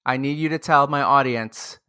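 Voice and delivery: ordinary talk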